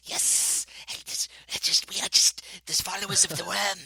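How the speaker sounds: hissing, whispery little creature voice; kobold voice. Shown as a demonstration. DM plays a kobold cultist for the hosts, hissing. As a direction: hiss like a hunched little kobold. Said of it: "like a kobold might be like".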